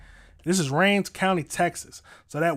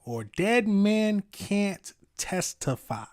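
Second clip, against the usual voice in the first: put-on slow, higher Southern accent; 6 semitones higher, much slower than usual. Streamer repeating the judge's threat slowly, Southern accent. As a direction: stretch it out in a mock Southern accent. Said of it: "Y'all say it in a Southern accent".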